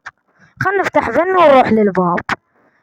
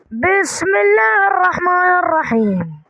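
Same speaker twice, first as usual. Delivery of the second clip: solemn prayer; 5 semitones higher than usual. Acted. Solemn prayer before entering portal.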